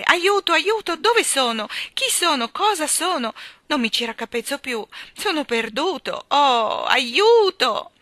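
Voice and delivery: high, loud cries of alarm; panicked shouting. A narrator's reading. Postman lost in the whirl, panicked shouting for help. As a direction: shout in mounting confusion and panic. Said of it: "gridò continuando a piroettare".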